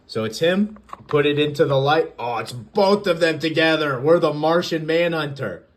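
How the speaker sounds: a fan showing off a hidden comic panel, delighted; excited. Real, not acted. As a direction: gush over the hidden panel. Thrilled at hidden panel reveal.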